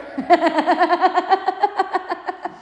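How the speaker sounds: high bright burst of laughter; real laugh. Real, not acted. Amused by her own comeback, laughing aloud. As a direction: laugh out loud at your own line.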